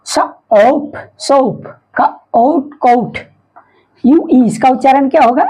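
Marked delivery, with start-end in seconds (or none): 0.1-3.2 "सोप" as "स", pause, "ओप", then joined; sounding out OA. Shown as a demonstration. Teacher showing long O, "सोप" and "कोट" sounded out in parts. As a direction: break "कोट" into "क" and "ओट", then blend.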